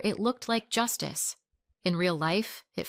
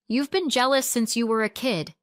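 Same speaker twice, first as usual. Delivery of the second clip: higher, louder heated jab; angry accusation; 5 semitones higher, 6 dB louder than usual. A narrator's reading. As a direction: hurl the accusation at your child. Mother's heated accusation in quarrel.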